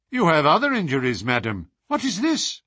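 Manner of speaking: quick, sharp rising question; surprised. Acted. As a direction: catch sight of the wound. Holmes notices her injured forearm.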